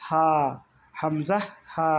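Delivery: "হামজা, হা" with air flowing freely; unpressed throat sounds. Shown as a demonstration. Teacher models the lowest throat letters, relaxed and unpressed. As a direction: say "হা" with no squeeze in the throat. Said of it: "চাপ দিতে হবে না".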